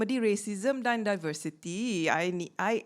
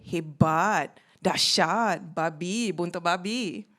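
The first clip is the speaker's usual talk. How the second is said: punchy slang; 4 semitones lower, 4 dB louder, slower than usual. Acted. Punchline list of slang words.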